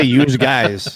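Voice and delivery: "yous guys" as said up North; "yous guys" with a Northeastern twang. Shown as a demonstration. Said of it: "See, we say".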